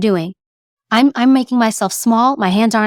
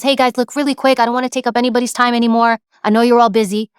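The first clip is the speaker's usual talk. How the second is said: rushed apology; faster than usual. Shown as a demonstration. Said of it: "when I speak really, really fast".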